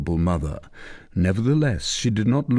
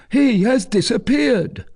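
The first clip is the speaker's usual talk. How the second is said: much higher, louder report; soldier reporting; 5 dB louder than usual. Acted. Soldier reporting to commander, higher voice. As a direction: tell the lord the bad news.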